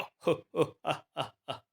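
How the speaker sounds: staccato ho-ho turning to ha-ha; acted ho-ho-ha cries. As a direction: burst out in short, separate ho and ha sounds. Acted outburst amid the bandits' screams. (हो-हो, हा-हा की आवाज़ें)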